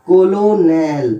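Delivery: कोलोनेल said slowly as ko-lo-nel, every letter sounded; spelling-out pronunciation. Shown as a demonstration. Teacher sounding out the spelling for students, slow and syllable by syllable. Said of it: "लेकिन English में सीओएलओएनईएल".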